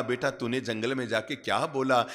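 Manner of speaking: mother softly asking her son; gentle mother. A narrator's reading. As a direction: ask the child tenderly. Mother gently asks child.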